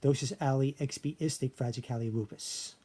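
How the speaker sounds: measured run through "Docious ali expiistic fragicali lupus"; "fragicali lupus" as fra-jih-cally roo-pus, each chunk distinct; backwards-word demo. Shown as a demonstration. Teacher demonstrating how she said it backwards, in measured chunks. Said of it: "it sounded like this".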